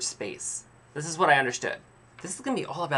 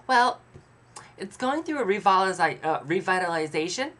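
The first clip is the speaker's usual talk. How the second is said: higher-pitched, haltingly upbeat mock agent; imitated forced smile; 4 semitones higher than usual. Estate agent describing the neighborhood to buyers, with imitated forced smile. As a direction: put on a strained smile and pause before the euphemism. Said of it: "She literally stops to smile like that".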